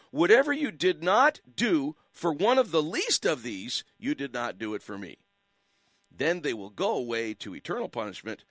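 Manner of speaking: solemn reading of the Gospel, stressing each "I"; measured, earnest Bible reading; scripture reading. Acted. Reads scripture on air.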